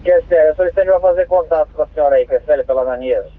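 crackly two-way radio transmission; squelchy handheld radio; police radio. Real, not acted. Dispatcher over radio.

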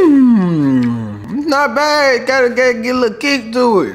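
talking between bites; chewing while talking. Real, not acted. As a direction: mouth partly full. Seen 0: Right man bit the bar at -1, talks while chewing.

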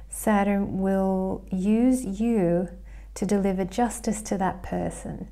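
each word stretched out, very slow; very slow emphasis. Shown as a demonstration. To viewers, repeating the prediction very slowly for weight.

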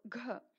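க as gha, voiced with a puff; breath letter. Shown as a demonstration. Teacher showing the fourth letter, க as breathy gha. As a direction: push air out behind a voiced க. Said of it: "ரெண்டும் மூச்சொலி எழுத்து".

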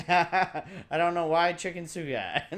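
laughing repeat. Real, not acted. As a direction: savour the silly rhyme, giggling. Laughing at own rhyme.

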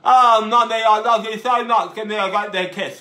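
talking with tongue out; tongue sticking out. Shown as a demonstration. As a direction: speak with tongue hanging out. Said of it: "talking with my tongue out".

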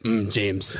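a hint of a stern drill sergeant calling a recruit; lightly voiced sergeant catching a recruit on the toilet; sergeant's voice. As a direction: mimic the kill hat's drawn-out "Mm, James". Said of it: "He's got the voice".

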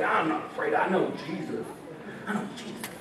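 mock confidence shrinking to a whisper; mock brave boast fading. Preacher mocking a believer, fading to a whisper.

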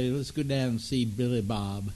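lightly put-on Texas accent; easy, casual mock Texas drawl. Host imitating Texan small talk, Texas drawl. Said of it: "a Texas drawl".

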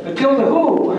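Matilda who, asked high with a laugh; laughing disbelief. Retold or imitated. Doctor asking the bitten major who Matilda is, laughing disbelief. Doctor baffled by bird bite.

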